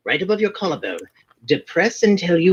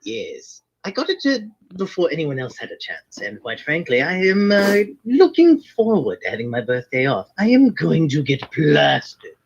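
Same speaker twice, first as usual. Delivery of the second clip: put-on Irish lilt as a wizard character; hammed-up Irish brogue of a fantasy character; fake Irish accent. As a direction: stay in a stage Irish accent throughout. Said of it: "the Irish accent, yes, was entirely fake".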